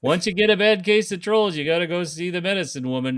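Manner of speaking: badly faked Minnesota lilt; bad Minnesota accent. Advising on trolls, bad Minnesota accent. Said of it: "Our accents are really pretty hideous".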